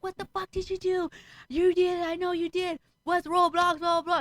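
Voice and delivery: high-pitched mock interrogation of a child; retold scolding. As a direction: act out a mother telling off her son. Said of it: "I'm over here scolding my kid".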